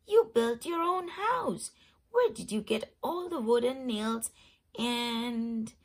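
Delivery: astonished man with the yellow hat; amazed. Acted. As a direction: sound truly amazed.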